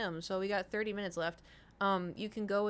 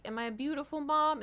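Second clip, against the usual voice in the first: cute pet voice; 7 semitones higher, 4 dB louder than usual. Retold or imitated. Pet voiced in TikTok trend.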